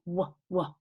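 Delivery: short, separate "wuh" sounds for "w"; isolated letter sound. Shown as a demonstration. Teacher shows pupils the beginning sound, "w" as a short wuh. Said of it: "What sound, not the name of the letter".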